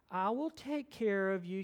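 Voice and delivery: a hint of a sweet child consoling a baby; sweet little girl. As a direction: lightly imitate a small child's sweet reassurance. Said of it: "She's got this beautiful little voice".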